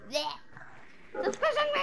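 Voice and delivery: slow, high whining plea; high drawn-out whine. Real, not acted. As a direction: stretch it out high and whiny.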